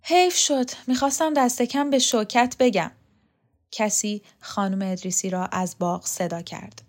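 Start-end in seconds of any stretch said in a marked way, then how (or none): 0.0-2.9 higher-pitched reproach; acted reproachful retort. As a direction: answer with pointed reproach. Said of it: "لقا با ملامت جواب داد".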